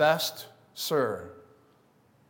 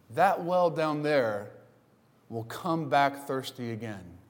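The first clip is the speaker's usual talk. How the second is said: gentle Jesus; 3 semitones lower than usual. Retold or imitated. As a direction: speak it tenderly, fading. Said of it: "But Jesus says to her".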